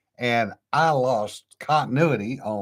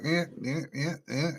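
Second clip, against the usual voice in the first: imitated puzzled "eh"; 3 semitones higher, 8 dB quieter than usual. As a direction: mimic squinting at garbled text, "eh, eh". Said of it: "and it's like".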